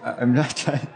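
shivering from the cold; words shaky with cold. Real, not acted. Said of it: "Sorry, I'm freezing".

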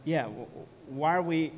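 low, subdued mock musing to oneself; asking oneself. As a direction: quietly voice a listener's private doubt, haltingly. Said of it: "might be asking to yourself".

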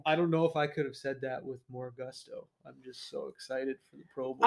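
soft, straight-faced mock enthusiasm; deadpan. Co-host insists he is excited for the Pro Bowl, deadpan. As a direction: claim great gusto while showing none. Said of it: "said it with a straight face".

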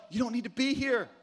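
God warning gently. Pretend. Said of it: "let you know".

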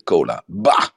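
mock disgusted dismissal; imitated disgust. Retelling Ronaldo rejecting the cola bottles, in mock disgust. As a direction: spit out the "bah" as if imitating someone's distaste. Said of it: "Omdat Ronaldo Coca-Cola verfoeit".

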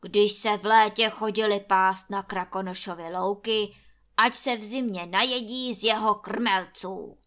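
loud, scornful landlord; harsh refusal. A narrator's reading. Landlord rebuffing Anče, loud and scornful. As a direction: throw the argument back scornfully.

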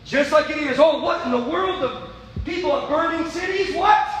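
high astonished cry; hammed-up alarm; mock surprise. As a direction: act stunned at the sudden news. Mock alarm at sudden devil.

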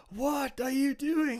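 high, slow disbelieving question; incredulous. Retold or imitated. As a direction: ask it in pure disbelief. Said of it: "and I'm like".

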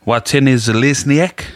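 Watene Zelezniak said slowly and carefully; careful name pronunciation. Real, not acted. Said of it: "You be practicing that one?".

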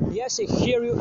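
sneering high-pitched imitation of the woman; mocking her reply. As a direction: parody her bored answer high and loud. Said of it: "She was like".

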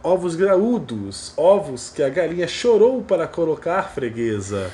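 high, loud, slow vendor cry; egg van call. Retold or imitated. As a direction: hawk eggs from a van. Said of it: "passa falando".

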